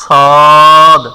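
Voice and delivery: সদ said heavy and drawn from the throat; teacher sounds out সদ for students to copy; letter demo. Shown as a demonstration. Teacher repeats সদ slowly for the class. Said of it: "তো আমরা উচ্চারণ করতেছি সদ".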